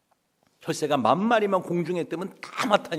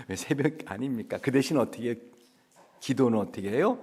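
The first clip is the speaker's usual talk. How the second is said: normal talking voice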